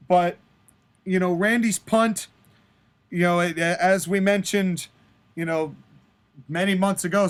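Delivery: low, subdued announcement; regretful injured wrestler. Acted. Wrestler telling the interviewer he must retire, subdued. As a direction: break hard news with halting pauses.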